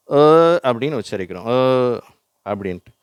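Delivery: அ said as the neutral schwa vowel; schwa sound demo. Shown as a demonstration. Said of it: "இதை நம்ம எப்படி உச்சரிக்கிறோம்".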